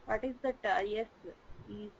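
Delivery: very faint, far from the mic; faint distant voice; barely audible. Real, not acted. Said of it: "your voice is very low".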